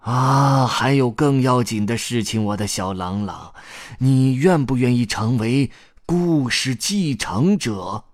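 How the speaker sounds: lightly voiced old storyteller; earnest story grandpa. Grandpa asks the boy to be heir, earnest appeal.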